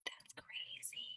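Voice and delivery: very soft, slow whisper; whispered aside. Real, not acted. Reader reacting to the balloon claim, whispered. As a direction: breathe it out slowly as a secret.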